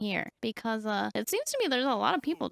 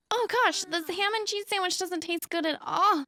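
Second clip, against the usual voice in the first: higher-pitched whine over food; mock complaining; 5 semitones higher than usual. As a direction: complain like a put-upon character. Character dislikes her sandwich.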